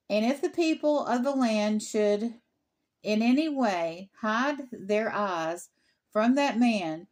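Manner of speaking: formal, measured Bible reading; scripture reading. Real, not acted. Resumes the Torah reading.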